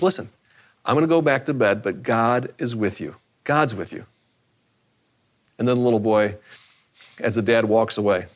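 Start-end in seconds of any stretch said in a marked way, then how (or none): 0.0-4.0 put-on calm a scared child; reassuring dad. Father soothes scared son.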